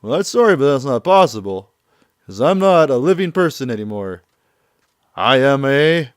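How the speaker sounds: high mocking villain voice; Yamashiro mocking. Vampire villain taunts Kiryu who came to kill him, high and smug. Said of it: "And he's just like".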